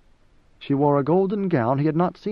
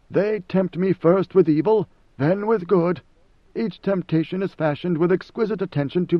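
a lightly voiced emperor, somewhat higher, measured; God Emperor Leto; 4 semitones higher than usual. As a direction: speak as a calm ancient ruler questioning his servant.

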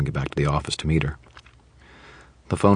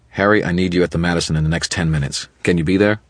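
cool, brisk, businesslike. Acted. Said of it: "Cool, brisk, businesslike".

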